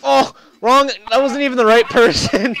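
real high, full-volume yell; outraged shout. Real, not acted. Player outraged it wasn't the right person, shouting. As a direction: shout it in loud protest.

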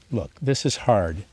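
imagined words of the kind therapist, tender and reassuring. Retold or imitated. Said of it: "It was like she was saying".

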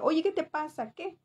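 mild mock scolding from a mother; a hint of an angry mum, retold. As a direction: lightly imitate a mum telling her daughter off. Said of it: "mi mamá me decía".

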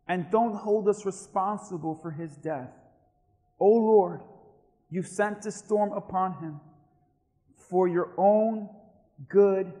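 slow, measured narrated plea; pleading. Acted. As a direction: plead phrase by phrase, with restraint. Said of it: "they pleaded".

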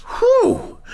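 high-pitched whew; high whistly whew of relief; relieved whew. Acted. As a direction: let out a big whew after the thrill. Commentator exhales after the race.

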